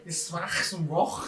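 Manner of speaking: put-on Essex accent. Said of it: "Charlie from Essex then".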